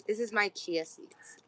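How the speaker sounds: whispered, slow aside; a quick whispered aside. Real, not acted. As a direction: whisper it to yourself. Aside while drinking.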